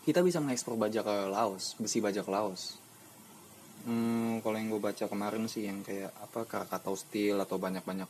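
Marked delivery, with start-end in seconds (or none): 0.0-2.8 talking around a cigarette while smoking; words loose around a lit cigarette. Real, not acted. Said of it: "gue sambil ngerokok".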